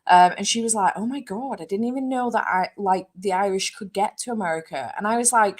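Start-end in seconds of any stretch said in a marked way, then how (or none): 1.0-4.9 higher-pitched mock amazement; amazed friend, retold. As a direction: imitate a friend marvelling in naive surprise. Retelling clueless friend's amazed remark.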